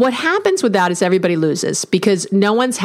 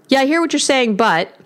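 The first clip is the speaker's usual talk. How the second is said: "but" dropping flat and shut; closing-down "but"; 5 semitones higher than usual. Shown as a demonstration. Therapist demonstrating the "but" phrasing, closed and dismissive. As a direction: let the voice sink on "but", heading for a rebuttal. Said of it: "even the tone of my voice changes".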